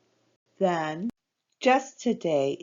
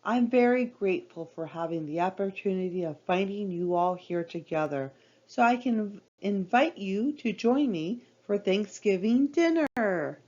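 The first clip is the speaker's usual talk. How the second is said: grown-up voice. Acted. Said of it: "speak in a very grown-up voice".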